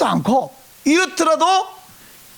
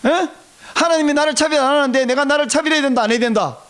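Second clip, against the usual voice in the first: higher, pressing quiz to the congregation; insistent prompting; 5 semitones higher than usual. Real, not acted. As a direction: press them hard for the answer. Asks again after weak response. (높은 톤으로 다그쳐 되묻기)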